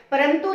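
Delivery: परंतु given as a wrong example, nasal meant as "m"; wrong nasal sound. Shown as a demonstration. Teacher repeating what we don't say, परंतु with an "m" sound. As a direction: say परंतु as "param-tu". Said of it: "परंतु नहीं बोलते".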